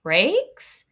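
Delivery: the truck barking orders, blink jumps high; lightly voiced truck commands. Teacher reading the truck giving orders to its crew, lightly voiced. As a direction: call out each command like a boss truck.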